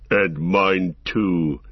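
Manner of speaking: low, slow growling orc captain; deep growl. A narrator's reading. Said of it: "said the deep voice".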